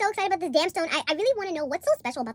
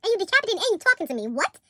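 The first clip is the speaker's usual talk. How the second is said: mock disbelief; 6 semitones higher, 3 dB louder than usual. Incredulous reaction, loud.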